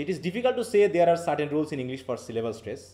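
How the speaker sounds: slow, deliberate textbook reading; reading rule aloud. Acted. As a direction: read the rule slowly to the class. (ধীরে বই পড়ে শোনানো)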